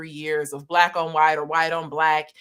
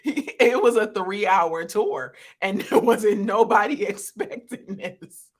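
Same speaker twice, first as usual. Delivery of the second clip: laughing; 3 dB louder than usual. Real, not acted. Jokes while laughing.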